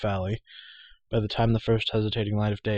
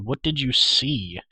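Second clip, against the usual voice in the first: louder, higher, slow urgent question; crying out; 4 semitones higher, 5 dB louder, slower than usual. A narrator's reading. Leader demands the lookout's news, crying out. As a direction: call it out, drawn out and raised. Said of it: "Taryn cried".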